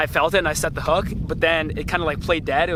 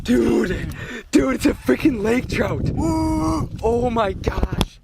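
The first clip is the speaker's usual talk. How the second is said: excited; 5 semitones higher, slower than usual. Real, not acted. First lake trout caught.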